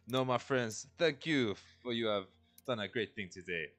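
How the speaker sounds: the tree insists warmly; talking tree. Acted. GM voicing the tree.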